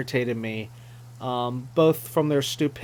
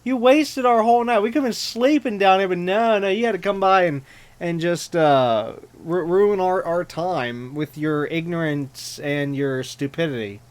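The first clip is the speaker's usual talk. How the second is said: exasperated rant; 3 semitones higher than usual. Real, not acted. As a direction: rant at the bird, fed up and fast. Scolding the game character angrily.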